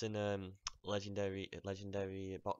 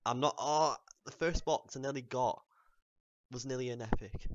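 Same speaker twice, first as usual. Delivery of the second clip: excited; 3 semitones higher, 7 dB louder than usual. Real, not acted. Reacting to near miss.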